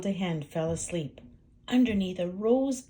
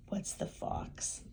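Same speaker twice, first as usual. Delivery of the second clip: whispering; 9 dB quieter, slower than usual. Real, not acted. Whispered to child.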